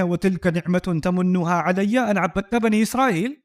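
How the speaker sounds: Quranic recitation. Acted. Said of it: "آگے سے کہتے ہیں".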